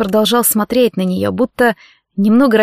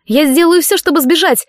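shouting; 6 semitones higher than usual. Acted. Kathryn shouts her defiance at the professor. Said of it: "честно выкрикнула она".

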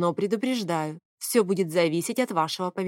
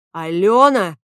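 "Алёна" yelled much louder; shouted name; 10 dB louder, slower than usual. A narrator's reading. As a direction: shout "Алёна" at the door in fury. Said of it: "Фавий воскликнул".

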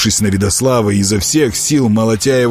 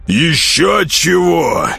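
higher and very slow, dismissive; rough retort; 8 semitones higher, much slower than usual. Acted. Nezhato refuses mercy and shoves him, rough. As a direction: brush him off rudely. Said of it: "грубо отозвался Нежато".

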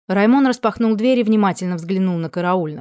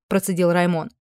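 plain reading voice

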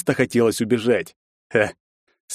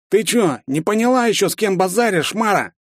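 menacing thug; 10 semitones higher than usual. Acted. Thug threatens girl.

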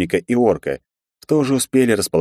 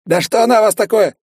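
frantic shout; 5 dB louder than usual. A narrator's reading. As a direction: shriek it out, high and loud. Lizard's high voice. (высокий отчаянный крик)

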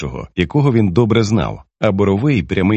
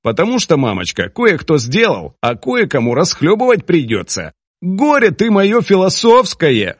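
much higher, sharp exasperated scolding; angry mother; 8 semitones higher than usual. Acted. Moroz snaps at her sniggering son Garik, angry. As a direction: scold your smirking son. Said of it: "Морозиха розізлилася".

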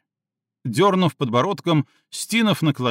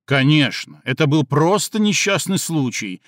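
a mild mock-agreeing sneer; sarcastic; 3 dB louder than usual. Stinov mocking Cindy's excuse, mildly sarcastic. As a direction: say it with light venom. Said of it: "язвительно ответил Стинов".

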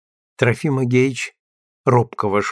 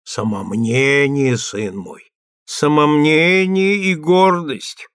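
preachy; 2 semitones higher, slower than usual. Acted. Priest admonishing prisoner.

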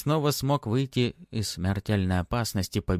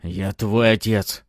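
slow, loud roar; 6 dB louder, slower than usual. Acted. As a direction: roar it slowly at her. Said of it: "взревел барон".

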